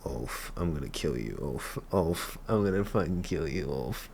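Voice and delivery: soft, low-pitched threat. Real, not acted. Viewer threatening Ulf on screen, quiet menace. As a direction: say it low and under your voice.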